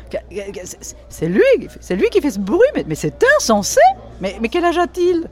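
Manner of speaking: shaken stammer, then rising outrage; stutter, then get indignant; a stammering, shocked lady. Acted. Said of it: "elle en bégayait".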